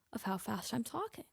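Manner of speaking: unvoiced whispered self-talk. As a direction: whisper it to yourself. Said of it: "And then I'm like".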